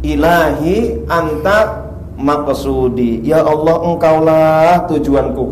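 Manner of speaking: slow devotional prayer; sufi prayer. Retold or imitated. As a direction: pray it slowly and earnestly. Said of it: "kata para sufi". (doa sufi yang pelan dan khusyuk)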